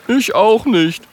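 high character voice, quick agreement; high little me-neither; young friend chiming in. A narrator's reading. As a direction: pipe up in agreement.

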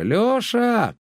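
high, far-off call. Acted. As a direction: hail him from behind the fence. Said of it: "закричали из-за забора".

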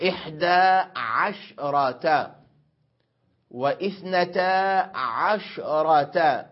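عشرة in إحدى عشرة and اثنتا عشرة said ʕashrah, shin unvoweled; silent shin. Shown as a demonstration. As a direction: drawl the compound numbers, closing the shin. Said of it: "بإسكان الشين". (عشرة بإسكان الشين في العدد المركب)

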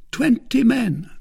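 very high, loud, terse servant; Grimaud's character voice. Acted. Grimaud reports to his master, very high terse voice. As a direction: report in a strange high-pitched voice.

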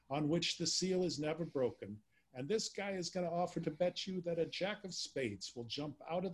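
New York accent, bad on purpose; worst Damon Runyon accent. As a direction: open like an old New York gambler. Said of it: "read in my worst, uh, Damon Runyon accent".

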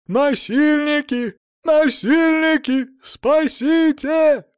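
high, slow panicked shrieks; hysterical screaming. Acted. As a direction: shriek for help in terror. Captive screams for help.

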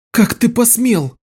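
outraged cry straight at him; cried out. A narrator's reading. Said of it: "крикнула Лиша".

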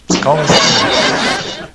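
slow words through laughter; laughing while talking. Real, not acted.

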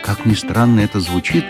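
usual speaking voice

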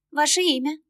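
high, bright-toned ticket clerk; polite service lady at the window; cashier voice. Acted. Cashier asks name. (вежливая кассирша, высокий голос)

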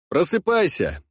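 barked, high and sharp; sharp wake-up call. Acted. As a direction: snap him awake. Slapping the boy awake.

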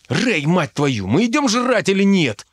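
high, exasperated demand; losing patience. A narrator's reading. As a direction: snap at a dawdling friend, rising in pitch. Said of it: "не выдержал Дарт". (нетерпеливо, с раздражением)

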